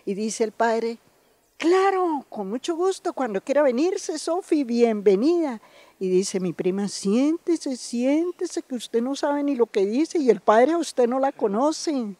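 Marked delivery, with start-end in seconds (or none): 1.6-5.6 priest's kind, welcoming lilt, pitched higher; warm welcome. Retold or imitated. Priest welcoming Sofi to stay, in a kind, higher voice. 6.9-12.1 higher, bossy hush-up; scolding cousin. Retold or imitated. Cousin scolding her to sit down, in a bossy, higher voice.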